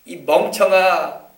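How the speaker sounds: slow, loud scolding; drawn-out insult, exasperated; slow exasperated name-calling. Retold or imitated. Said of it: "이런 말이에요".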